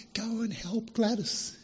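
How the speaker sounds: hushed, slow urging; whisper. Retold or imitated. God speaking into people's hearts, whispering. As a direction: drop to a soft, unhurried near-whisper.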